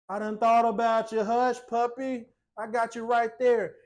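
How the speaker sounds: loud, mock-scolding reassurance; playful sassy comeback. Host answering a whiny commenter, playful sassy comeback. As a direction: shush them playfully, punched out loud.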